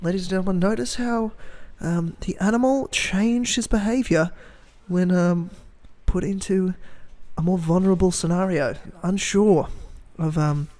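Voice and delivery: lightly done nature documentary narrator; a hint of Attenborough wildlife narration; David Attenborough impression. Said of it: "full David Attenborough".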